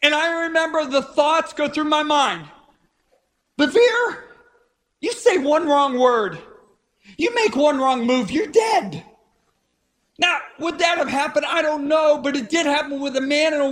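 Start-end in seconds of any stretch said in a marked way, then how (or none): 3.6-9.0 stern warning voice. Acted.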